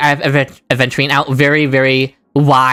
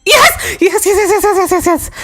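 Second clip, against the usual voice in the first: much higher, laughing yes scream; victory screaming. Real, not acted. Streamer hitting a great roll, screaming and laughing. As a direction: shriek yes over and over. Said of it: "I'm sorry for screaming into my".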